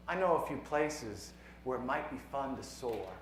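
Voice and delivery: poem read out with lifted, lilting phrases; poetry reading. Acted. Poet reads a physics poem to students, lilting poetry reading. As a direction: project the verse, pausing between lines.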